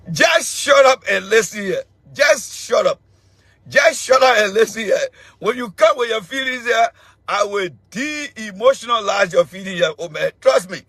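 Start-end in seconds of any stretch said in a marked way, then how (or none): 0.1-5.0 shouting him down. Real, not acted. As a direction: bark it down, half laughing. Telling a caller to shut up.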